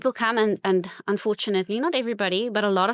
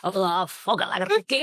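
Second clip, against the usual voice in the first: lightly voiced old Afrikaans uncle; broad South African accent. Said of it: "all these old worms in their bakkie".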